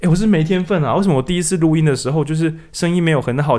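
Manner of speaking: high-pitched mock self-pity; 假装自怨自艾. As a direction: act out a beginner moaning about having no talent. 扮演做不好时的自我抱怨. (夸张地抱怨自己，音调偏高)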